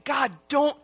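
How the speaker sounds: acted pleading, drawn out; begging. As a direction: beg God slowly, as if playing Moses. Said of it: "Moses is begging God".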